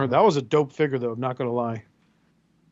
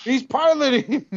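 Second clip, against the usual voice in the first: high-pitched, slow mocking tone; squeaky voice teasing the toy; 10 semitones higher, 3 dB louder, slower than usual.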